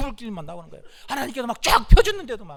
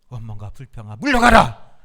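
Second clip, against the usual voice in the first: loud rebuke; commanding shout; 9 semitones lower, 8 dB louder than usual. Real, not acted. Preacher commands complaint to leave. (물러가라고 크게 외치는 명령)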